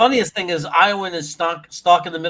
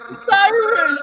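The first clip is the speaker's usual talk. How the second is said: put-on Irish accent; 8 dB louder, slower than usual. Mock Irish correction.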